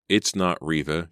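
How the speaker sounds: realizing. Acted. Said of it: "she realized".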